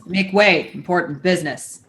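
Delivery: a hint of a low Minotaur. Shown as a demonstration. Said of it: "lower like this".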